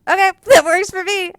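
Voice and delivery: high, loud, laughing mock cheer; delighted laugh as she storms off; triumphant laugh when the woman leaves her seat. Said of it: "and I was like".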